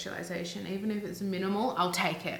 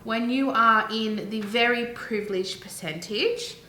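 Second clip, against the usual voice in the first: retorting; 3 dB louder than usual. Retold or imitated. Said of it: "I was like".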